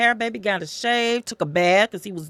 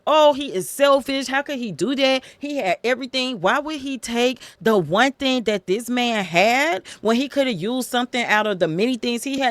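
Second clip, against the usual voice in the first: indignant, higher-pitched outrage at the rich man; irate king; 4 semitones higher than usual. Retold or imitated. David outraged at Nathan's story, indignant and higher. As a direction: raise the pitch, protest the injustice. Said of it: "David instantly gets irate".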